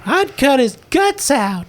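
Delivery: menacing threat. Acted. Player voices menacing interrogator.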